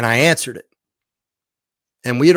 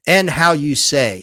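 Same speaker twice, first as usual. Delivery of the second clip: electronic voice's phrase; 4 semitones higher, 3 dB louder, slower than usual. Retold or imitated. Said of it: "it would say things like".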